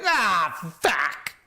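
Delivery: high, exasperated groaned curse; mock cry of frustration; retold disappointed outburst. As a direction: act out cursing in disappointment. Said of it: "I was very, very disappointed".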